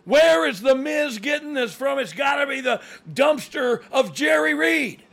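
play-by-play commentary. Acted. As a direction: build to a frantic wrestling call.

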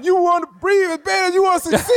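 booming motivational speech. Retold or imitated. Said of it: "I went into motivational speaker mode".

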